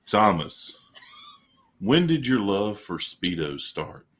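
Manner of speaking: slow, lightly put-on radio host voice; deep radio voice. Co-host asks Thomas an interview question, deep radio voice. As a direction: read it like a radio interviewer, unhurried. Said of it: "my deep radio voice".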